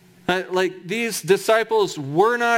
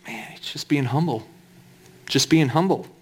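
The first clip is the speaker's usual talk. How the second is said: mock pious reader; 5 semitones lower than usual. Preacher voicing a naive reader's view, low mock murmur. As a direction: sneer at the easy reading. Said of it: "you might read that and think".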